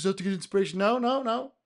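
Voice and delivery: ordinary talk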